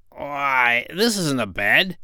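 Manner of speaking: a little pig protesting; piggy voice. Acted. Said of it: "cried Gub Gub".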